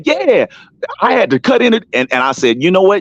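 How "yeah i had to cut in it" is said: high mocking impression of Lou; mock him with a high sing-song voice. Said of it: "Lou will jump in and say".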